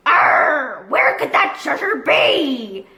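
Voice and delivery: slow, wondering pirate growl; puzzled pirate. Acted. Long John Silver at the empty dig, puzzled pirate voice. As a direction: ponder it as a frustrated pirate. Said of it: "wondered Long John Silver".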